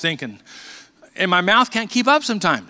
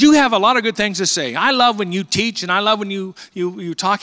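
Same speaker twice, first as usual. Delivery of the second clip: a lightly voiced golden radio voice, higher and louder; imitating the old radio man's praise; hint of a smooth radio announcer; radio voice imitation; 4 semitones higher, 4 dB louder than usual. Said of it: "He says".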